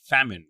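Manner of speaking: "Famin" said the English way, FAM-in like famine; English pronunciation. Shown as a demonstration. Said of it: "I'm doing the English version of it".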